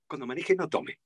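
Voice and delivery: soft, easy advisory read; friendly, no scolding. Shown as a demonstration. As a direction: give friendly advice without scolding. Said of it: "muy friendly".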